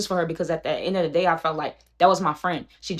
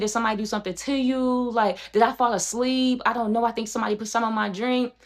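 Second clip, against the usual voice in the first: lightly higher, mock pitiful begging; a hint of a whiny, innocent plea; imitating pleading friend; 5 semitones higher than usual. Mimicking friend begging her not to leave, lightly higher. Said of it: "She starts saying stuff like".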